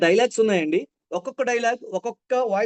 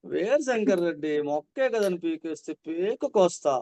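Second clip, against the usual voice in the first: romantic demo; slower than usual. Shown as a demonstration. Teacher shows the student a slow romantic reading. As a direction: say the threat slowly like a lover. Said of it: "శృంగారం, ప్రేమ అని చేయాలి".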